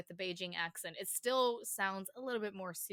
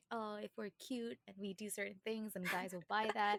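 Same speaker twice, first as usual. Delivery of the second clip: put-on cutesy girl. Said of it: "The cutesy nuts".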